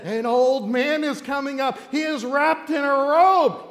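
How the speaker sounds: high, loud stagey announcement; dramatic medium. Acted. Woman describes the old man rising, intense and stagey. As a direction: build to a slow, loud proclamation.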